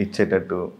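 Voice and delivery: normal talking voice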